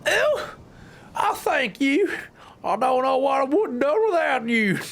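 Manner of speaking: high voiced young woman; girl voice. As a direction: lift the voice into a grateful girl. Voicing female game character.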